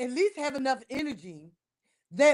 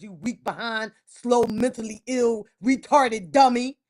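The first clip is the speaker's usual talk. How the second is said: angry insult; 5 semitones lower than usual. Real, not acted. Insulting the player angrily.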